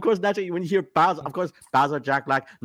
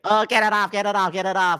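mock panic; 7 semitones higher than usual. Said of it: "jokes with Hollywood films".

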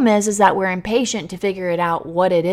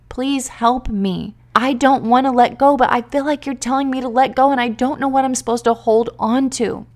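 pleading prayer; 4 semitones higher than usual. Retold or imitated. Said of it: "I'm crying out to God and I'm saying".

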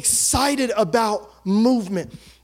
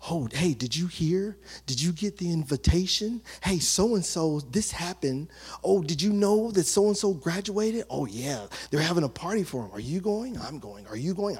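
excited gossip; 4 semitones lower, 6 dB quieter than usual. Retold or imitated. Gossiping guests, excited chatter.

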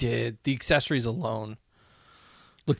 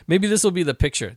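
laughing; 4 semitones higher, 6 dB louder than usual. Real, not acted. Laughing at a funny photo.

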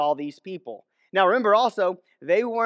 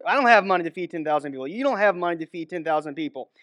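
exasperated Philip; faster than usual. Retold or imitated. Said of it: "the tone of voice that".

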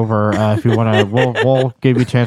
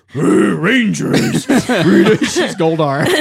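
slow villain voice; 4 semitones higher, much slower than usual. Retold or imitated. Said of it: "she goes".

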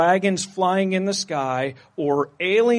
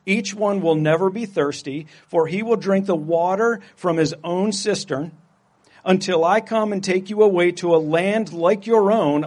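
loud proclamation. Acted. King of Mars calling out to the nation, loud proclamation. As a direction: proclaim it like a king's messenger. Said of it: "he called out in a loud voice".

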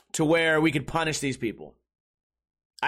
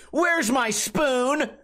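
slow and high, smug demand; entitled Karen; 6 semitones higher, slower than usual. Retold or imitated. Karen correcting the bartender, slow, high and smug. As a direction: savour the gotcha, slow and smug. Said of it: "loaded and cocked and ready".

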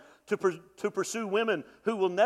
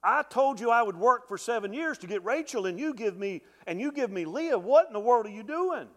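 slowed, higher, louder complaint to his uncle; indignant Jacob; 6 semitones higher, 4 dB louder than usual. Retold or imitated. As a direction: protest the cheat to Laban. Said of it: "and is like".

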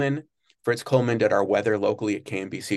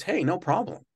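easygoing okay; 9 semitones higher than usual. Retold or imitated. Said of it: "Jay even told the department".

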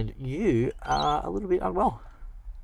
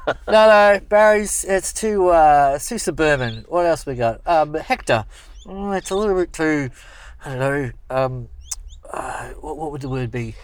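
fussy editor voice; 3 semitones higher, 5 dB louder than usual. Retold or imitated.

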